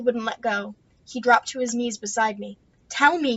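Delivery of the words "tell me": a touch of insistence; demanding. Acted. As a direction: press her firmly. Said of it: "he demanded".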